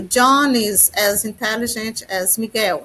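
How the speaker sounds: slow, careful English for learners; teacher reading an English example slowly to students; slow example sentence. Shown as a demonstration. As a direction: spell it out word by word for the class. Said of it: "Quando eu digo".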